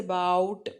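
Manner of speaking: "about" with a drawn-out, stressed BOUT; slow demonstration of aBOUT in "about"; stressed second syllable. Shown as a demonstration. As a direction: lean hard on the end of "about". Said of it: "इसको जोर से बोलते हैं हम ऐसा".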